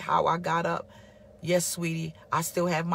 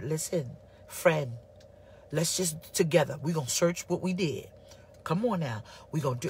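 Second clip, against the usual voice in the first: calm counsel; 4 semitones lower than usual. Retold or imitated. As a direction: gently urge him to search himself. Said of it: "Bildad came from a place where he said".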